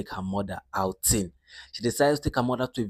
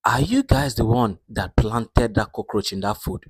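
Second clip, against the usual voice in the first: suspicious; 4 dB louder than usual. Acted. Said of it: "the mother was like".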